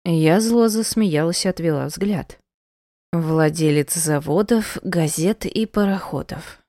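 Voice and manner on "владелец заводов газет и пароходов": slow, trailing into a whisper; sarcastic aside whispered to herself; quiet bitter quip. Acted. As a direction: mutter it bitterly under your breath. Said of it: "сказала тихо".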